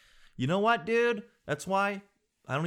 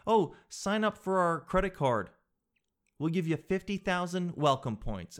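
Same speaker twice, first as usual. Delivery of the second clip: mock bank pitch; 4 semitones higher than usual. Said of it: "That banking shit".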